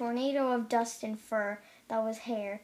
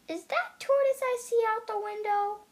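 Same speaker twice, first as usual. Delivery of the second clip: mild yell; 8 semitones higher, 3 dB louder than usual. A narrator's reading. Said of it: "Mouse yelled".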